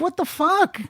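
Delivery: high incredulous outburst; exasperated disbelief. Retold or imitated. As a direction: throw your hands up, incredulous. Exasperated thought about stranger.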